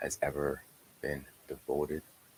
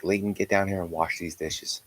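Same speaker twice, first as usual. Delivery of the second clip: loud, raised-voice call through the house; retold parental yell, louder; yelled summons; 3 semitones higher, 8 dB louder than usual. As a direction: call the kid down from another floor. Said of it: "I have to yell".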